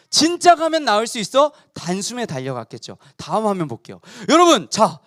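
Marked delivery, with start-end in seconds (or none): 0.1-1.5 진짜를 높이 올리며 들떠 묻기; 희망에 부풀어 다시 확인하듯; 들뜬 되물음. Acted. (기대에 차서 '진짜'를 힘주어 묻는 장군)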